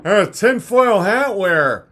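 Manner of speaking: a hint of a sneering critic, dragged out; lightly mock the people who sneer. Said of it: "So when people say".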